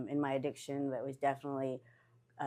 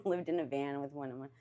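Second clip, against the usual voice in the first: real chuckles breaking into the talk; trying to talk through giggles; laughing; 3 dB quieter than usual. Real, not acted. Recalling homeless days in a van, laughing. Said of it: "that I'm laughing".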